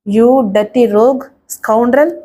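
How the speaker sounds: slow, drawn-out scolding insult; cursing him word by word, slowly; mild scolding. Acted. Woman scolding her attacker, slow and drawn-out. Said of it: "ఇష్టం వచ్చినట్లు తిట్టసాగింది".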